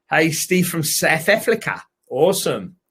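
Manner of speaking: light put-on South African accent; a hint of a South African accent. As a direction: say it with clipped South African vowels. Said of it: "your South African accent".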